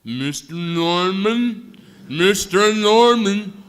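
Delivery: very loud, slow shouted calling; yelling a name. Retold or imitated. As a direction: shout to wake someone up. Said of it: "she was yelling".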